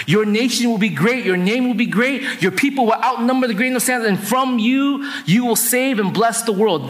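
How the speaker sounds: father bestowing a grand blessing; proclaiming a blessing. Acted. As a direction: pronounce it as a promise over a son. Isaac pronouncing the family blessing.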